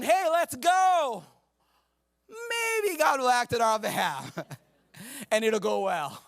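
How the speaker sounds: slow, hesitant mock reading; a limp, half-hearted battle call; uninspiring version. Shown as a demonstration. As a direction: say it unsure and timid. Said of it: "Doesn't that sound so much better than".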